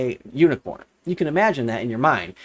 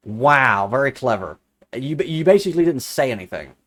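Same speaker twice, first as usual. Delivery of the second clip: dry mock praise, lower; deadpan sarcasm, as if unimpressed; sarcastic; 3 semitones lower than usual. Real, not acted. Sarcastic reply to quoted claim.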